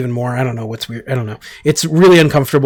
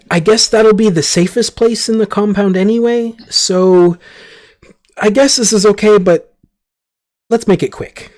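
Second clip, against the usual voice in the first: ambassador voice; 4 semitones higher than usual. Acted. GM voices ambassador leading party.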